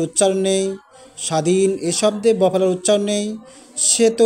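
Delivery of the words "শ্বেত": শ্বেত said as shet, no b sound; শ্বেত spoken as plain shet; clear example word. Shown as a demonstration. Teacher to students, example শ্বেত said as shet. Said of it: "শ্বেত শব্দে বফলার উচ্চারণ নেই".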